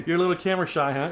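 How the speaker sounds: high laughing pet talk. Real, not acted. Teacher laughing at her camera-shy dog. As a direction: laugh while teasing the dog.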